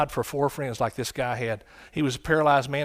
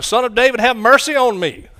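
a much louder, higher desperate cry; 8 semitones higher, 9 dB louder than usual. Retold or imitated. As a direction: shout it over the people hushing you. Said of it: "He cried out all the more louder".

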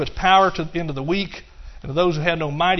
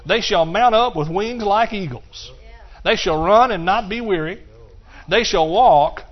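louder, building preacher's proclamation; preaching; 4 semitones higher, 7 dB louder, slower than usual. Acted. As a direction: build each line higher and stronger. Preaching scripture climax.

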